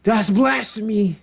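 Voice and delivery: high-pitched little villager crying out; small people's alarm. Retold or imitated. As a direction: imitate tiny folk in high-voiced alarm. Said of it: "the small people was like".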